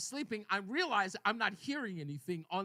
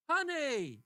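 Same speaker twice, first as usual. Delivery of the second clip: higher sing-out, imitating wife; good-mood wife; 5 semitones higher, 4 dB louder than usual. Wife calls to husband on waking, cheerful. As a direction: call out sweetly as the wife. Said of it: "she's in a good mood".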